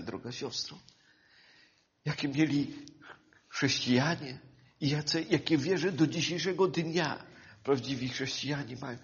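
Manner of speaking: soft, low pastoral voice; quiet heartfelt exhortation; intimate appeal. Acted. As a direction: speak gently to each brother and sister.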